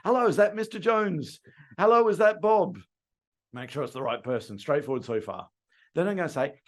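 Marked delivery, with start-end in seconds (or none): 0.0-2.8 friendly phone greeting. Shown as a demonstration. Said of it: "follow-up call".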